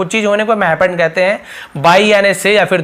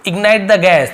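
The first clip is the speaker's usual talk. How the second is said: each word drawn out; slow model phrase; much slower than usual. Shown as a demonstration. Teacher slowly modelling the English phrase. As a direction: say it slowly for students.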